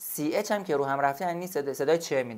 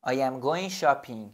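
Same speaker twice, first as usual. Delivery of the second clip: "I am going shopping" slowly, word by word; slow model sentence; much slower than usual. Shown as a demonstration. Teacher to student, a slow model sentence. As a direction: say it slowly for learners.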